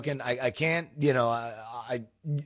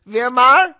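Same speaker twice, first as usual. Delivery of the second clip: put-on high, loud Hispanic accent, swooping up; her Hispanic-accented voice; 8 semitones higher, 11 dB louder than usual. Caller copying the phone woman's name for the driver, Hispanic accent. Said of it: "have to say it in her voice".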